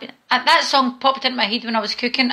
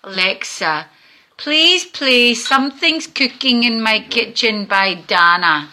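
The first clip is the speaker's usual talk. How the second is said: forced politeness. Pretend. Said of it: "I'm gonna be nice".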